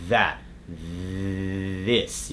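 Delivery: "That, this" with a drawn-out buzzing TH; vibrating voiced TH. Shown as a demonstration. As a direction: hold the vocal-cord buzz on the TH of "That, this". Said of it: "you're gonna feel the vocal cord vibrating".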